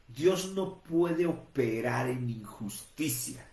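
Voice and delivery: Dios no puede operar en injusticia, spaced out word by word; slow and deliberate. Shown as a demonstration. Preacher stressing a key truth to listeners, slow and deliberate. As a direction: lay it down slowly for the congregation. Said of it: "entendamos esto".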